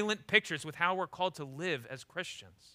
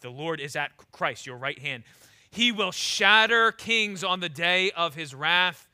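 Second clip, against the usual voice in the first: scripture reading; 3 semitones lower than usual. Acted. Preacher reading the psalm to the church, slow and grave. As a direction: pronounce the judgment gravely. Reads Psalm one ten.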